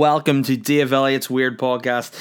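lifted, upbeat radio host welcome. Pretend. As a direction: announce it like a radio DJ. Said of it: "that was my radio D J voice".

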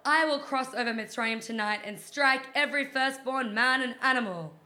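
slow, loud, booming voice of God; Hashem voice. Pretend. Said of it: "this is my Hashem voice".

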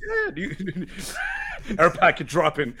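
high laughing through the joke; laughing fit. Real, not acted. Cohost riffing on goat news, laughing hard. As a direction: crack up mid-word.

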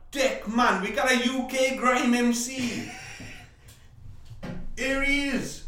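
high Jamaican hype man; Jamaican accent. Pretend. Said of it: "why does he go straight to Jamaica".

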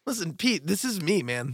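quiet, understated imitation of a co-host; impression of Joe. Co-host mimicking his friend addressing the father-in-law, quiet impression. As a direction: softly put on a friend's voice, man to man. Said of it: "you're trying to do my voice".

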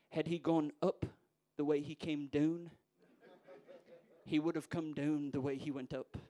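badly imitated thick Scottish accent; poor Scottish accent. Old churchgoer commenting to his friend on the preacher, poor Scottish accent. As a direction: attempt a thick Scots lilt, poorly. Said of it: "in his thick accent, which I'll try to emulate poorly".

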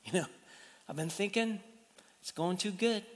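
soft, a hint of a sheepish plea to God; mock prayer. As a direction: pray it half-jokingly, quietly. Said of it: "didn't get up this morning and pray".

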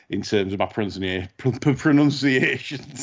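tripping over words, hungover. Real, not acted. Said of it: "This is the hungover edition".

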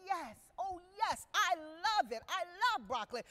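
a hint of an eager child saying yes; polite little girl. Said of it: "She politely said".

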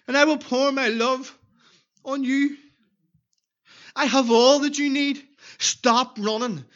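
a hint of Jesus pleading, slowing near the end; voicing Jesus. Preacher voices Jesus calling the lost child, gently pleading. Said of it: "He's saying".

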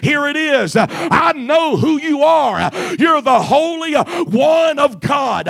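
spirits crying out. Acted. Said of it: "unclean spirits crying out, saying".

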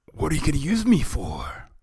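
high, loud hero voice; hammed-up frightened question; alarmed captive. A narrator's reading. Captive turtle questions villain.

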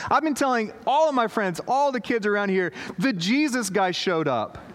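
mock kid bubbling over; excited teen.

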